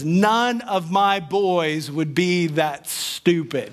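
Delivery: slow, measured mother's line, lightly voiced; a hint of a confident mother, slowly; mom's voice. Mom defending her boys to the neighbors, slow and sure. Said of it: "my precious mom says".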